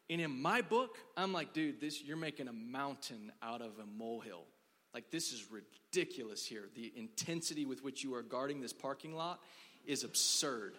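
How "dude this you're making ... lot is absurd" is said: low, exasperated mock protest; understated indignant lecture; retold exasperation. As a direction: protest the absurdity in a lowered voice. Retells his scorn at valet.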